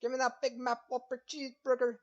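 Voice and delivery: whooping, high and loud hammed-up American cowboy; mock American accent. Mocking Americans on a podcast, hammed-up American cowboy accent. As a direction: yell it like a burger-crazed cowboy parody of an American accent. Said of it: "After the American accent, of course".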